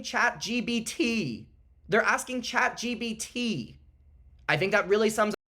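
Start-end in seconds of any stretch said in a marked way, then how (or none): 0.0-3.8 "Chat G B T" with a hard B sound instead of P; "Chat G B T" spoken with a B for the P; says G B T. Real, not acted. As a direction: say "G B T" as gee bee tee, a B where the P belongs. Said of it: "he said G B T both of those times".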